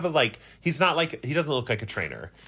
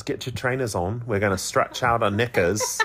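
mock British accent. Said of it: "He says".

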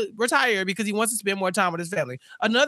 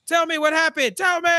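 mock demanding dad; 7 semitones higher than usual.

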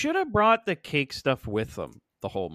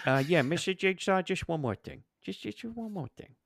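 Columbo impression; 4 dB quieter than usual. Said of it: "it's Peter Falk".

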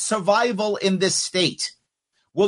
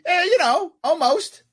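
sarcastic; 12 semitones higher than usual. Real, not acted. Sarcastic shrug.

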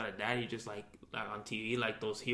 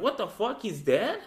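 shocked; 9 semitones higher, 7 dB louder, slower than usual. Retold or imitated. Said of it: "They're like".

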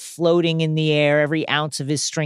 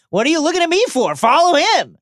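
much higher and louder, quick and indignant; high, fast, louder mock outrage; mock exasperated Leia; 12 semitones higher, 5 dB louder, faster than usual. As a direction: toss it off like an annoyed princess. Leia voiced in retelling scene.

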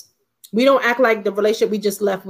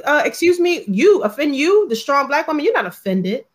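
higher, indignant mock coworker; mocking offended coworker; 3 semitones higher than usual. Mocking the coworker who scolds her, higher and indignant. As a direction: play the scandalized coworker, pitch up. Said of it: "they'd be like".

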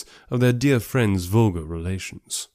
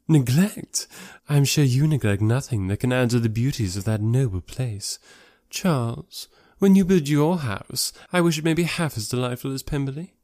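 lightly raised society-lady voice; effusive praise, then coaxing; Miss Bingley; 3 semitones higher than usual. Acted. Sister urging Charles to copy Pemberley, gushing.

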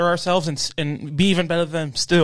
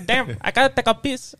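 put-on Boston accent; 8 semitones higher than usual. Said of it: "trying to do Boston".

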